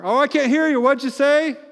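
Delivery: playing deaf to Jesus, hammed-up; a hammed-up self who won't listen; mock distracted self. Mocking self ignoring Jesus.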